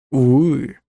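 loud, drawn-out despairing cry; anguished old man's holler; desperate yell. A narrator's reading. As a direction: call out in desperation. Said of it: "отчаянно заорал старик".

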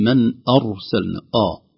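"أرسلنا" opened on a thick, dark hamza; wrong heavy hamza. Shown as a demonstration. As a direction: make the first vowel of "أرسلنا" heavy and backed. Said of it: "قد يفخم الهمزة". (نطق خاطئ بتفخيم همزة "أرسلنا")

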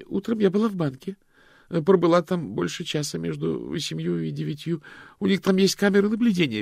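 high, loud anxious woman's voice; nervous Loretta. A narrator's reading. Loretta pleads her alibi to detectives, high and anxious. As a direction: talk fast, defend yourself.

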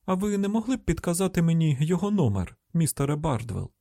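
high, courteous request; polite agent on the phone; polite caller. Acted. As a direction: ask nicely in a lifted voice.

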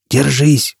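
a touch of a croak; strained call to hold on; mild hoarse call. Acted. Foyle urges Jisbella in the current, slightly hoarse. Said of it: "прохрипел Фойл".

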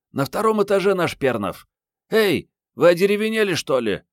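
high-pitched woman prodding her colleagues; Mariette, impatient. A narrator's reading. Mariette hurries her gawking colleagues along. (высокий женский голос, нетерпеливо подгоняет)

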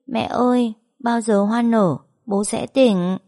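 put-on a small child repeating a promise earnestly; child's voice. Little son tells mother dad will wake up, childlike voice. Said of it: "con lại nói tiếp".

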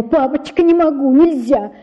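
put-on high, urgent child's pleading; begging father not to take money; высокая отчаянная мольба; desperate pleading. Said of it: "умоляя его".

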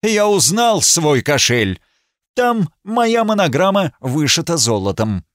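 gloating. Acted. Marquis gloating over the purse he recognizes. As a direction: rub it in with mock politeness. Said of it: "сказал злорадно".

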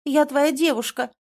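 high, loud yell; shouting. A narrator's reading. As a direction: yell back at him. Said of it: "Аня тоже кричит".

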